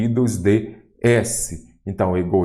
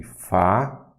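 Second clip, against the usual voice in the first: "Falência" broken into fa, lên, cia with long pauses; syllable by syllable; 2 semitones lower than usual. Shown as a demonstration. Teacher finding the stressed syllable, "Falência" in separated syllables. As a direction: spell out "Falência" one slow syllable at a time. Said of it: "Vamos aqui".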